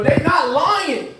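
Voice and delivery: "They not lying" dragged out slow and savoured; slow drawn-out. Shown as a demonstration. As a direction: stretch every word, half the speed.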